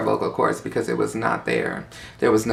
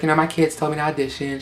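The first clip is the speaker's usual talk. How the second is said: put-on sweet old lady; 6 semitones higher, 3 dB quieter than usual. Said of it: "she's like".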